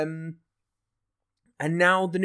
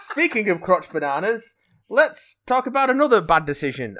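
laughing; 6 semitones higher, 6 dB louder than usual. Real, not acted. Repeating the joke, laughing.

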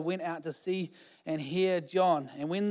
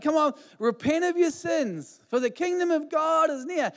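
fiery preacher; 9 semitones higher than usual. Retold or imitated. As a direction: call the crowd to repent. Acting out John preaching.

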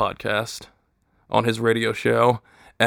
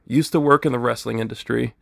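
ordinary delivery

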